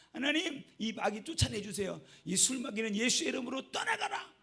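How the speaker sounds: put-on boy praying over his drunk father, loud and fervent; fervent child's prayer. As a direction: pray hard to drive the demon out.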